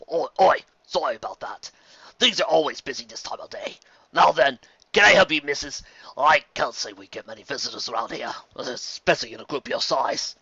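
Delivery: lightly voiced jolly barman; friendly, folksy welcome; old bartender voice. Bartender greets the newcomers warmly.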